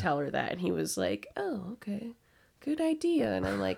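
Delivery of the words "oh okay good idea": mock-dumb eager agreement, pitch climbing high; dopey supervisor. Supervisor Mike taking the obvious tip, mock-dumb agreement. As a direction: play the clueless boss who just got it. Supervisor naively accepts advice.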